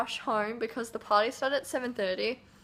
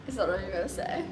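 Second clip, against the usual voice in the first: hoarse from yelling; 4 semitones lower, faster than usual. Real, not acted. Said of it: "I have no voice left".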